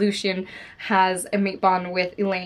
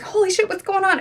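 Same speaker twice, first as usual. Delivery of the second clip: much higher, excited shout of disbelief; shouting at the book; 11 semitones higher, 3 dB louder than usual. Retold or imitated. Friends reading a book aloud outdoors, shocked excited shout. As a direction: yell it like the twist just hit you. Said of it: "we're shouting at this book".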